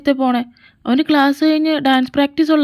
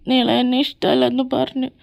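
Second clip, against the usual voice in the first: hammed-up sobbing between words; mock-cry like a rejected suitor; whimpering. Rejected boy sulking alone in a corner, whimpering. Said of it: "അവനാ മൂലക്കിരുന്ന് മോങ്ങുന്നുണ്ട്".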